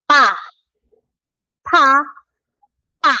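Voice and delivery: aspirated then tense then plain pa; Korean p series. Shown as a demonstration. Teacher demonstrating p sounds to students, aspirated pa. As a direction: puff of air on the first Pa. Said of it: "Lagyan mo ng hangin".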